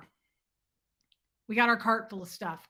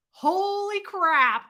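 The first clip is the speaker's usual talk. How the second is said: slow exclaim; 9 semitones higher, 5 dB louder, much slower than usual. Real, not acted. Recalling embarrassment.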